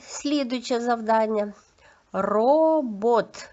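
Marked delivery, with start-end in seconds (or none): 2.1-3.5 "Робот" drawn out with a trilled R; slow teaching model of "Робот"; sound-by-sound demo. Shown as a demonstration. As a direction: stretch the first syllable of "Робот", then say the second. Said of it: "зробимо звуковий аналіз слів".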